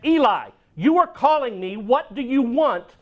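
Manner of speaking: put-on a boy certain he heard his name; insistent boy. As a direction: Samuel insisting to Eli. Boy insists a third time.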